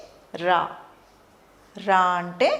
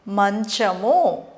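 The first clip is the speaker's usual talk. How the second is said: slow teacher model; much slower than usual. Shown as a demonstration. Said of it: "మా అంటే".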